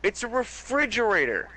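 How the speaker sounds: screaming at family. Retold or imitated. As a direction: yell it at the whole fighting family. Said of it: "I'm screaming at everyone".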